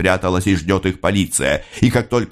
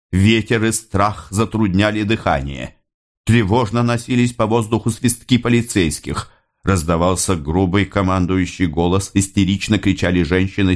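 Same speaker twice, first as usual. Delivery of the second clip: ordinary delivery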